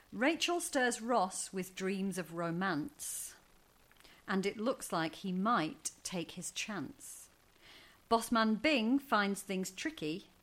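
slow rhythmic poem reading; limerick recital. Acted. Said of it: "with a limerick".

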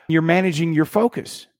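usual speaking voice

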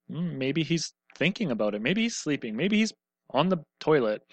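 mock-pondering, sing-song taunt. Elijah taunting the prophets of Baal, mocking. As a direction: tease with exaggerated swoops in pitch. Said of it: "Elijah starts mocking them".

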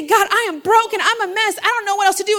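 desperate confession, acted out; acted desperation. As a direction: cry out to God at a loss. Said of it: "it's out of desperation".

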